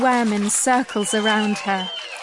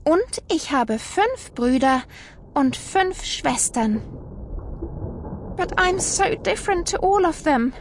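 Wilma's voice; 4 semitones higher than usual. Acted. Wilma voiced, sad about family.

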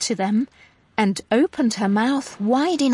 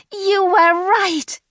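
Wilma's voice; 9 semitones higher, 4 dB louder than usual. A narrator's reading. Wilma hugging Herman.

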